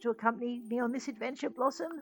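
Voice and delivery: put-on light Ocker accent slipping British; cheery Aussie bloke, half British. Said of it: "I want to do more of an Ocker accent for Fletch, but I keep defaulting to British".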